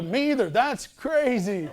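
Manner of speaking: playing dumb with a laugh barely held in; high, slow mock innocence with a laugh; fake innocent laugh. Telling Renee he is as puzzled as she is, stifling a laugh.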